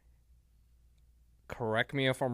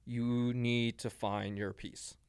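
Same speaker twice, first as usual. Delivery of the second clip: gentle advice. Retold or imitated. Voicing late brother's advice.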